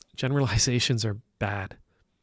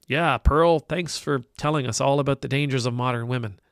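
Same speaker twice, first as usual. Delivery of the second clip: sarcastic. Pretend. Sarcastic fan comment voiced.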